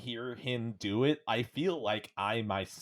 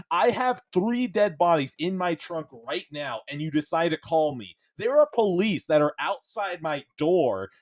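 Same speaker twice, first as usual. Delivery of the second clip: louder, higher mock rant; berating the scammer; 7 semitones higher, 5 dB louder than usual. Telling off a scam caller in a higher, louder mock rant. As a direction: rant at the caller in fake fury. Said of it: "just berating them, hard".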